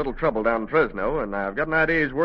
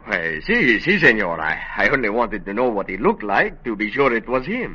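light put-on Spanish accent, a detective in disguise; a lawman faking a mild Spanish accent; phony Spanish accent; 3 semitones lower than usual. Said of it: "with that phony accent".

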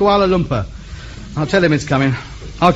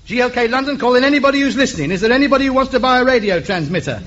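auctioneer; 6 semitones higher than usual. Acted. Auctions his radio set.

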